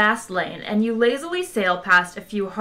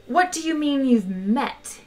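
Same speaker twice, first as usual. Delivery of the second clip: indignant, higher-pitched challenge; demanding; 6 semitones higher than usual. A narrator's reading. Ford rounds on Arthur over having met, demanding. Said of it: "he demanded".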